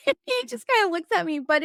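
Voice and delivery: high, fast laugh through the words. Real, not acted. Host laughing about her husband, laughing. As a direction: laugh while telling it.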